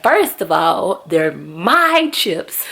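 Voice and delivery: put-on slow, matter-of-fact child; a kid defending his snack; sassy kid. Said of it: "He was like".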